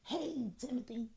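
cold then breezy mascot greeting; snubbing mascot voice. Retold or imitated. Mascot in a parade snubbing a five-year-old, breezy. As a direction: brush past the black kid, then sweeten for the white one. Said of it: "is like".

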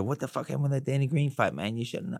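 lightly voiced high-pitched boxer; Mike Tyson impression. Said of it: "you have got his voice down well".

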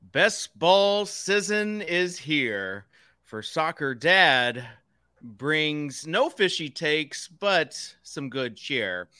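slow rhyming recitation. Acted. Rhyming show intro verse.

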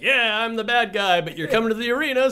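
high, fast smug bad guy; gleeful villain owner. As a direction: play the happy wrestling heel. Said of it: "Melnyk could be like".

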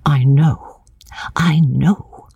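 intense breathy whisper; hushed and fervent, almost secretive; passionate whisper. A narrator's reading. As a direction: whisper it urgently through a veil. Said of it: "whispering through it with a passion".

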